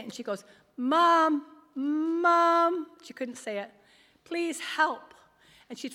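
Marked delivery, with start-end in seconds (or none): 0.8-3.7 high, loud, long-held call, imitating a failing voice; struggling to speak. Sick daughter trying to call her mother, struggling to speak. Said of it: "she was trying to talk, and she couldn't say it". 4.2-5.1 high, louder imitated plea; struggling to speak. Fallen daughter calling to her mother, struggling to speak.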